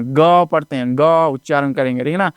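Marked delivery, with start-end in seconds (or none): 0.0-1.0 ग as hard "guh", not "jee"; letter sound ग, "guh". Shown as a demonstration. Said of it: "जी नहीं पढ़ते हैं".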